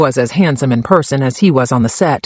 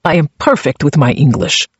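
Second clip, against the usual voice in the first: put-on proud Czech accent. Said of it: "His chest puffed out".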